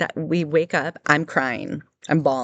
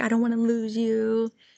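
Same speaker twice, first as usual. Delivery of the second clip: acted high, tearful, clinging crying tone; 7 semitones higher than usual. Retelling how he begged to stay: imitating someone crying. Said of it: "And he starts crying".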